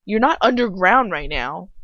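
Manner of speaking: a touch of mock scolding; lightly voiced scolding of the heroine; exasperated. Recalling her reaction, she scolds the heroine. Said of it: "I was like".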